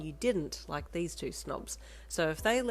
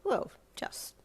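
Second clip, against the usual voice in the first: vaguely; 7 semitones higher, 5 dB louder, slower than usual. Acted. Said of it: "she said vaguely".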